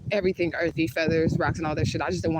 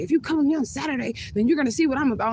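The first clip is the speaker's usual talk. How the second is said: retelling the date yelling at her in a mocking high voice; 9 semitones higher than usual. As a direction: shout it up high like him losing it. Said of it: "he's yelling at me".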